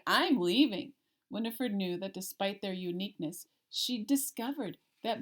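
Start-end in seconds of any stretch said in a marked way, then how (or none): 0.1-0.9 mild shout. Acted. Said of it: "a big monster shouted".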